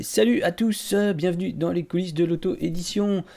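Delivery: a hint of a big YouTube intro; Joueur du Grenier greeting. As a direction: greet the viewers like a famous YouTuber, half in jest. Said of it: "Comme ferait le joueur du grenier".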